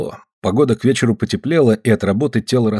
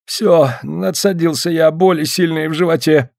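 mock groaning; 6 semitones higher than usual. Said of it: "застонал, скорчившись".

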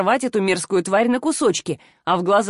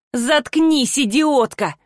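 higher snarled insult; mild growled rage; growling; 4 semitones higher, much slower than usual. Acted. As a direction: snarl it at her. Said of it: "прорычала Ангель".

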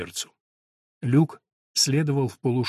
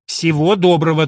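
firm; 4 semitones higher, 9 dB louder than usual. Acted. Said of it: "твёрдо сказала миссис Монтегю".

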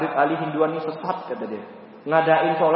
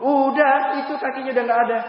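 acted reply; 8 semitones higher, 4 dB louder than usual. Doctors answering in retold story.

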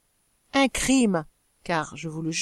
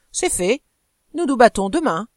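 louder swaggering boast; coarse bravado; 5 dB louder than usual. Acted. Husband announcing the duel to his wife, swaggering boast. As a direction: throw it at her proudly. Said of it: "le même accent de forfanterie grossière".

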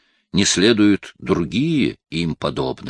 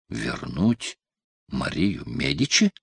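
usual speaking voice

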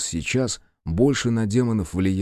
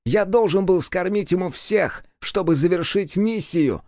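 high, bitter, forced out; a raised, bitter demon confession; demon spitting words; 9 semitones higher than usual. A narrator's reading. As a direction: spit out long-hidden words. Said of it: "выплюнул он".

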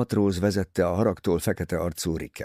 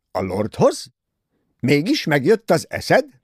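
loud, high sharp retort; angry aunt; 6 semitones higher, 6 dB louder than usual. Acted. Aunt scolds Cornelia about the lord, loud and angry. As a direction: hit back hard at the girl. Aunt reacts to marriage news.

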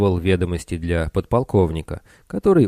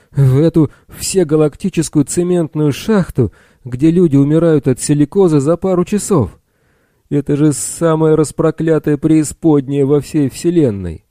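furious shout; 8 semitones higher, 5 dB louder than usual. A narrator's reading. Bill shaking Blacky, furious.

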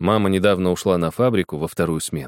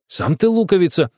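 put-on high, raised girl's yell; angry shout; 10 semitones higher, 3 dB louder than usual. A narrator's reading. Girl shouting back at the boy. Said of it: "закричала Светлана".

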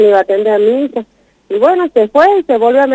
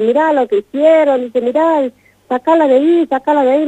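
retold doctor's yelling; 5 semitones higher than usual. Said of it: "me empieza a gritonear".

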